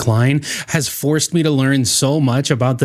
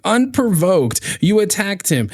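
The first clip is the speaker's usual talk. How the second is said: indignant accusation; 6 semitones higher than usual. Real, not acted. Commentator accusing the guest of an unprovoked attack, indignant. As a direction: accuse in a raised, emphatic pitch.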